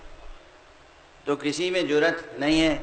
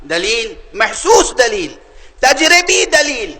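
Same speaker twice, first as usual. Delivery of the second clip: slow, raised declamation; emphatic preaching; 9 semitones higher, 7 dB louder, slower than usual. Real, not acted. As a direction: proclaim each phrase slowly, with weight.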